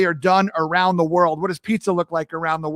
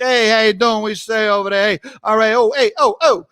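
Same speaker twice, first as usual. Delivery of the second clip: New York talk; 3 semitones higher than usual. Acted. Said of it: "whenever I come back, it's always, I'm always like".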